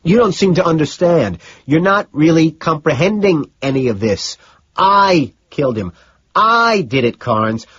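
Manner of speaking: high, loud, insistent confession; frantic outburst. A narrator's reading. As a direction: hammer each claim, stretching out the words. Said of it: "trying to ignore my outburst".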